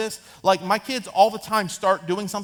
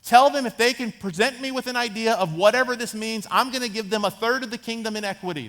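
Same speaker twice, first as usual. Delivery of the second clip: louder, higher, playful sales pitch; lightly acted king pitching a big deal; king as dealmaker; 4 semitones higher, 4 dB louder than usual. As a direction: sell the offer to the room. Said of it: "He's like".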